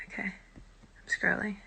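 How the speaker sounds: whisper. Real, not acted. Scrolling chat alone, whispering.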